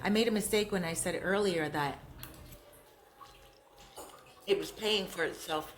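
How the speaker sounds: talking with mouth full. Real, not acted. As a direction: speak through a mouthful. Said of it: "I'm sorry for eating with my mouth full".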